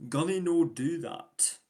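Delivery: a slow Scottish "Gunny no do that"; light Scottish accent. Shown as a demonstration. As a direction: plead it like a Scot. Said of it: "give you a presentation of this".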